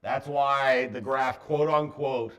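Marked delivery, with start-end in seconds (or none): 1.4-2.3 "unquote" said as "on quote"; mispronounced quote unquote. Real, not acted. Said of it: "I always say that wrong".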